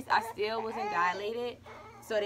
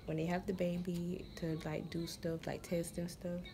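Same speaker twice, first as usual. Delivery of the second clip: whisper; 4 dB quieter than usual. Real, not acted. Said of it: "whisper heard".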